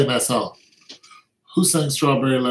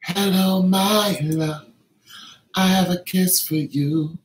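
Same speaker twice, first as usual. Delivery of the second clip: higher sweet put-on voice; cutesy voice; 6 semitones higher, slower than usual. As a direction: coo it like a lover. Cutesy high greeting.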